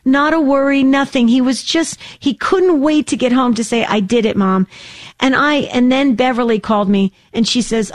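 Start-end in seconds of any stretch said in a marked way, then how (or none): 0.0-4.7 excited report. Retold or imitated. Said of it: "phone call from Sandy".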